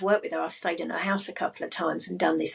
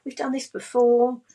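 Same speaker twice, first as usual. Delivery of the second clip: higher, comforting reassurance; arm-round-the-shoulder encouragement; reassuring little self; 4 semitones higher than usual. Acted. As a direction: comfort a small child. Put my arm around little me.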